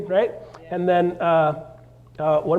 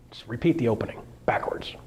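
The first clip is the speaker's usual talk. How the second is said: whisper; 4 semitones lower, 6 dB quieter than usual. Real, not acted. Aside while explaining video structure.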